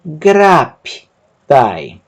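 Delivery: very slow, syllables apart; syllabified slow demo. Shown as a demonstration. Teacher sounds out the word very slowly for students. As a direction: stretch each syllable for learners.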